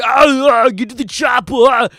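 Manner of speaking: put-on loud, shouted action-hero accent; Arnold Schwarzenegger impression. Streamer reviving his childhood impression, shouting. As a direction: bark the order like a movie tough guy. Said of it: "my greatest voice ... Arnold Schwarzenegger".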